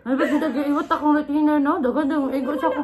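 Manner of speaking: fast giggly talk; laughing, fast. Real, not acted. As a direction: rush it out while laughing.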